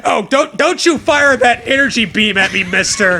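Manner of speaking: mock scolding. Scolding clerk.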